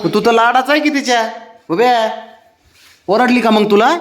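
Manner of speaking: high-pitched, coddling voice; coddling pet talk. Real, not acted. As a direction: coax a sulking pet, pitched well up.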